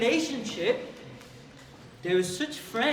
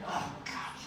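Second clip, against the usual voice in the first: mumbled, embarrassed protest, a bit quicker; embarrassed kid; 2 semitones higher, 5 dB quieter than usual. Pretend. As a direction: grumble it like a kid picked on in class. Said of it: "could have said".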